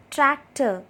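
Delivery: TRAC, TOR as two separate beats; syllable by syllable. Shown as a demonstration. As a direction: split Tractor in two for clapping. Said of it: "Clap with me as I say these words".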